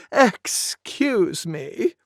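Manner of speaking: polite. Acted. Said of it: "I always sneeze politely".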